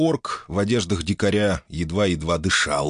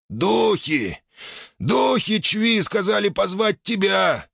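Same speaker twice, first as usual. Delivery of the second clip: urgent; 12 semitones higher, slower than usual. Acted. Orc urgently explains.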